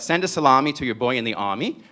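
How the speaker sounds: light New York accent on the slogan. Shown as a demonstration. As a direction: say it like an old New York deli ad. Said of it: "You have to say it with that New York accent".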